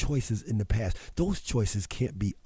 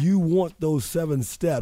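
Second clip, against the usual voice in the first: higher, louder, slower teasing push; playful teasing; 6 semitones higher, 5 dB louder, slower than usual. Real, not acted. Host teasing co-host Natasha about the steps, playful and loud. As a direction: draw it out to tease her.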